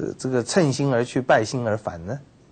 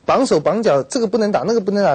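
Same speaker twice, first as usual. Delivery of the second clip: higher, louder building list; emphatic; 8 semitones higher, 6 dB louder than usual. Real, not acted. Preacher rousing the congregation about the bound army, emphatic. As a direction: hammer each restriction. Preacher stresses army's restrictions.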